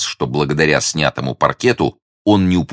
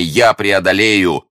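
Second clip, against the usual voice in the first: high, slow, emphatic assurance; confident hero's high declaration; exclaiming; 6 semitones higher, 3 dB louder, slower than usual. A narrator's reading. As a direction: promise it boldly, stretching the words. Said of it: "воскликнул Д'Артаньян".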